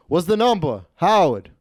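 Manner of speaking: lightly voiced Italian-American gambler pestering the dealer; mock demand, calling out the name; Stefano. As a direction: imitate an insistent Italian-American customer. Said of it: "Every time he would always ask".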